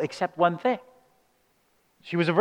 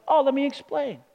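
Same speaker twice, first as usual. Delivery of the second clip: lightly acted sweet angel, pitched up high; 7 semitones higher than usual. Angel obligingly answering Mary's question, mock-sweet. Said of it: "he's as sweet as can be".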